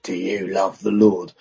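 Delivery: low, lightly gravelly question; a hint of a gruff big stranger; lightly gravelly big man. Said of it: "In that kind of gravelly voice".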